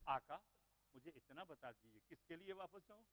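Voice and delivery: put-on soft, hushed child's plea; a child quietly pleading with his master; very calmly. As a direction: ask it calmly, almost in a whisper. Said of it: "اب بڑے آرام سے کہتے ہیں".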